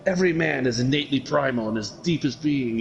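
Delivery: lightly mocked British accent; a hint of stuffy British; British gentleman. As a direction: imitate a British man airing his theory. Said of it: "It's about these British dudes".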